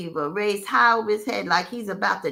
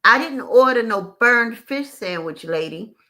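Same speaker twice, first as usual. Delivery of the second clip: louder, indignant retort; arguing back; 3 semitones higher, 6 dB louder than usual. Retold or imitated. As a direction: snap back at the waitress. Customer arguing back with waitress.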